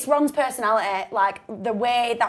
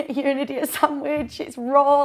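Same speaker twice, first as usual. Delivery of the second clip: Gordon Ramsay; 5 semitones higher, slower than usual. Retold or imitated. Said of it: "Gordon Ramsay".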